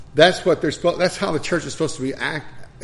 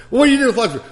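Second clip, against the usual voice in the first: much higher, louder mock challenge; angry old man; 10 semitones higher, 8 dB louder, much faster than usual. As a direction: mimic the old man's accusing question. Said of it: "I said".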